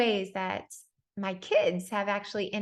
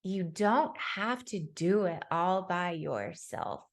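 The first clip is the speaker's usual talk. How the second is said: put-on gentle child; much slower than usual. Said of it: "was like".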